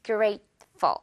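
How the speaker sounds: grateful with a feather-light ful at the end. Shown as a demonstration. Teacher showing the light ful of grateful. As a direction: say grateful, ful barely touched. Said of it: "깃털 붙여주면 돼요".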